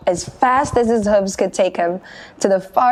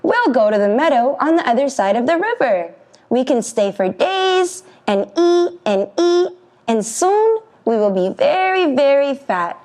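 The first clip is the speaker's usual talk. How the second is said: smug little goat; 6 semitones higher than usual. Acted. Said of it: "feeling very smart".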